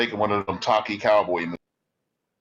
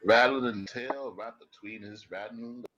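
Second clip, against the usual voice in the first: put-on cowboy accent. Helper promising to muzzle Angus in slow cowboy drawl. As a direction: drawl out the threat like a gunslinger. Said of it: "you must stop that accent".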